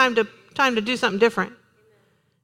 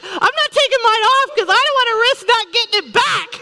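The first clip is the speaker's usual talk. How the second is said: higher, louder, laughing through the words; joking through laughter; 8 semitones higher, 4 dB louder, faster than usual. Retold or imitated. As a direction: tease while laughing. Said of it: "I said".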